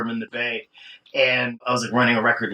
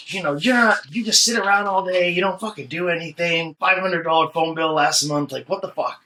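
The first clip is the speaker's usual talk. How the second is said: angry boss; 5 semitones higher than usual. Retold or imitated. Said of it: "And she's like".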